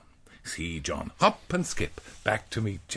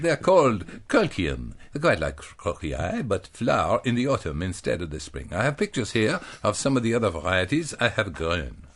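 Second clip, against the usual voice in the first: put-on a mild German accent on a Guernsey lady; 2 semitones lower than usual. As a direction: put on a lightly Bavarian German accent for Mrs Defieux. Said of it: "What accent is this?".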